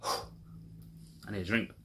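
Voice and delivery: very slow, whispered, drained; weary sigh. Real, not acted. Worn out after the rant, a slow whispered sigh. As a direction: breathe it out, exhausted.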